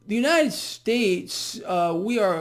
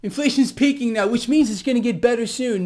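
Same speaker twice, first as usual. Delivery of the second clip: sing-song mocking quote, a little higher; mocking the narrative; 4 semitones higher, 4 dB louder than usual. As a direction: parrot the official line with scorn. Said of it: "narrative has been".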